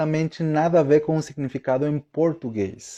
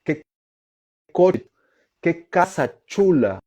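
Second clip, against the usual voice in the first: excited compliment; 5 semitones higher than usual. Retold or imitated. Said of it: "utiliza muito essa palavra pra falar".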